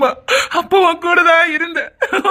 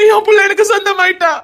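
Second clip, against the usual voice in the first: father shouting through joyful tears; crying shout; 5 semitones higher than usual. Acted. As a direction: cry it out to the world. Father repeats, rising to a cry.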